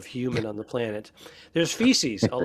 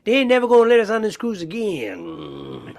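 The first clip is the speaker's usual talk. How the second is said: a lightly put-on southern redneck accent, higher and louder; 7 semitones higher, 7 dB louder than usual. Co-host joking about never being let back on, southern redneck accent. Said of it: "I don't know what kind of an accent".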